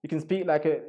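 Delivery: faltering try at a British accent; attempted British accent. Shown as a demonstration. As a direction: have a go at sounding British. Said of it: "I'm not so good at the British accent".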